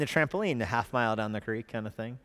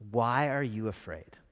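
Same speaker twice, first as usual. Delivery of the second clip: gentle question; 3 semitones lower than usual. Retold or imitated. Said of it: "his question is perfect".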